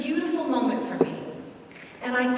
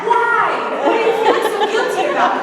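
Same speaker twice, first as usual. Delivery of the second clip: loud, high, fast blurted question; loud surprised priest; startled priest; 10 semitones higher, 8 dB louder than usual. Retold or imitated. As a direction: jump on her with the question. Priest startles her in confession.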